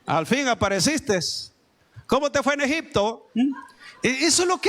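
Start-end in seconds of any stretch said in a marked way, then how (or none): 0.1-3.3 lower, sneering mock welcome with a chuckle; mocking scorn. Church member scoffing at a returning believer, mocking sneer.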